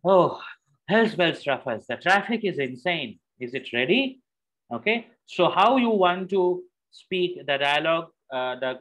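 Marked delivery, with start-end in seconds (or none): 0.0-4.2 out of breath, huffing; breathing heavily. Shown as a demonstration. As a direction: puff between the words. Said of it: "while breathing heavily".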